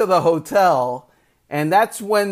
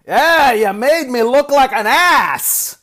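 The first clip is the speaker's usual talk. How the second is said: louder, higher mock-angry accusation; raised, higher voice of an annoyed coach; coach's complaint; 8 semitones higher, 5 dB louder than usual. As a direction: voice the coach griping, pitched up and louder.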